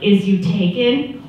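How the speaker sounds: slow imitation of his probing; drawn-out chat-up. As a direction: spell it out slowly, mimicking him. Man's awkward chat-up question retold.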